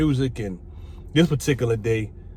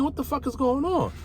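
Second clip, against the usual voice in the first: agitated guard; 12 semitones higher, 4 dB quieter than usual. Retold or imitated. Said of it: "he come in here bugging".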